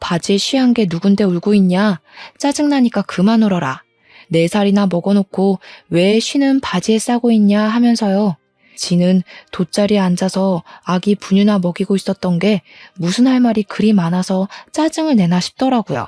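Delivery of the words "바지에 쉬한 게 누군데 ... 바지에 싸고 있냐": usual speaking voice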